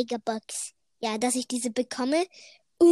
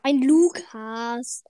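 drawled; 6 dB louder, slower than usual. Real, not acted. Repeated drawled answer.

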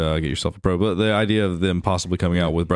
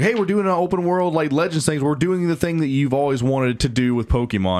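higher-pitched eager developer pitch; mock hype announcement; 5 semitones higher than usual. Developers promising fans their dream Pokemon game, mock hype. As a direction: imitate an excited company reveal.

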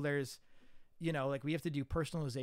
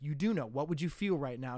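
pressing director; 6 dB louder than usual. Retold or imitated. Director pressing student on question.

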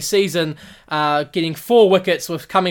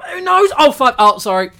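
mock unsure batsman; 13 semitones higher, 8 dB louder than usual. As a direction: play a nervous batsman doubting himself. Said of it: "he's like".

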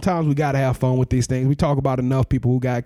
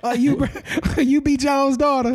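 mock hood customer, pitched way up; acting real hood; 13 semitones higher than usual. Pretend customer calling out to Jones' daughter, high mock hood voice. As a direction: play hood in a high, joking voice. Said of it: "Act real hood too".

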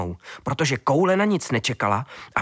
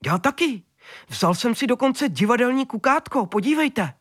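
high, eager rabbit voice; little rabbit proudly showing off; high-pitched bunny voice; excited rabbit; 10 semitones higher than usual. A narrator's reading. Rabbit Kvítek speaks.

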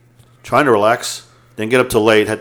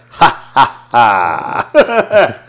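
sinister laugh; 6 dB louder, much slower than usual. Retold or imitated. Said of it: "But she did it sinister".

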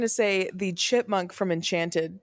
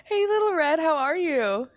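plain; 9 semitones higher than usual. Acted. Host greets guest brightly.

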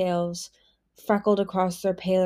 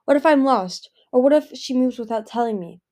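rising panic, higher and louder; fretting she is lost in the desert; panicky worry; 4 semitones higher, 6 dB louder than usual. Acted. Palm alone in the desert, panicky.

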